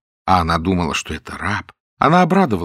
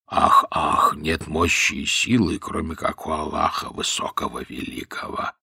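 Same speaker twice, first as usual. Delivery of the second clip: low, faint, slurring the words; a feigned sickly slave mumbling; a lowered, tongue-tied mumble; slurred low voice; 6 semitones lower, 5 dB quieter than usual. A narrator's reading. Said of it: "понизил голос и заговорил заплетающимся языком на наречии".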